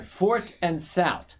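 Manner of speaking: "South" ending in a hard t, no th; South without H. Shown as a demonstration. Showing friends the local name of the corner, "South" pronounced "sout". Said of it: "there's no H in there".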